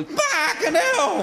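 drawn-out slow curse; pained outburst. Retold or imitated. Patient yelps as the funnel goes in, slow drawn curse. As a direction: groan it out through the pain.

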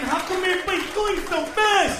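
lightly voiced goofy animal asking; goofy gazelle. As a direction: play the clueless gazelle.

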